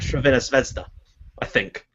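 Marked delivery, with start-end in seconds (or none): 0.0-0.9 "Sravena Zvezda" said the Serbian way, the team's real name; a tentative stab at "Sravena Zvezda" in Serbian; Serbian pronunciation. Shown as a demonstration. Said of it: "it's pronounced".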